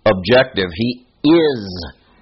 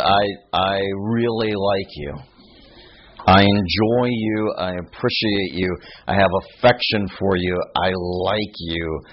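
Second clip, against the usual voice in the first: lightly voiced disciple, lower and unhurried; Peter's humble affection; 3 semitones lower than usual. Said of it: "Peter says, in response to the Lord's".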